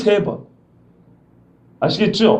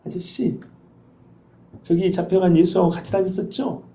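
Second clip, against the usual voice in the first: softer, lowered voice asking; a quiet question that sends a chill; hushed chilling question; 6 dB quieter than usual. Shown as a demonstration. Servant girl quietly confronts Peter, hushed and chilling. 서늘하죠?.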